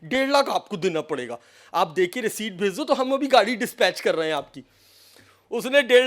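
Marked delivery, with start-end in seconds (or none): 0.0-4.6 a softer, coaxing caller voice; butter her up gently; sweet-talking. Retold or imitated. Scam caller coaxes the woman into paying, softly and sweetly. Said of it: "उसने बड़े प्यार से कहा".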